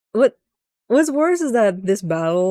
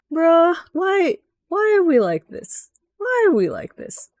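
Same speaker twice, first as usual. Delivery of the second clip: exasperated shout; 8 semitones higher than usual. Retold or imitated. Exasperated at boss fight.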